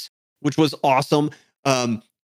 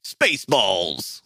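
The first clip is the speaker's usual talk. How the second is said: drawn-out title; 7 semitones lower, 3 dB quieter, much slower than usual. Acted. Slow low drawn title.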